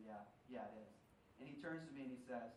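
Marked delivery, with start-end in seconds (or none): 0.1-0.9 much softer, lower and throwaway; quiet offhand answer. Retold or imitated. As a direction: mumble it without looking up. Dad answers without looking.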